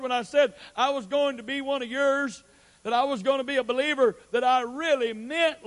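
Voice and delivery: mock a half-hearted convert; hammed-up smug excuses to the Lord; mocking insincere believer.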